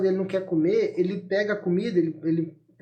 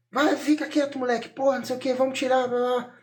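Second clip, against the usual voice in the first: put-on higher-pitched, impatient scolding of a kid; mock aggressive; 5 semitones higher than usual. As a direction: imitate an aggressive parent telling a child off. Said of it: "pra eu ser agressivo".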